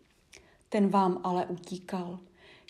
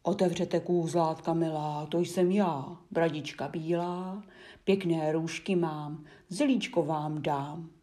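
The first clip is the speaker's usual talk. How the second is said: louder, lightly voiced wolf calling; wolf at the gate, a loud mock bass; 4 dB louder than usual. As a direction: call at the gate as a disguised wolf. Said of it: "Spustí hlasem, vlčím basem".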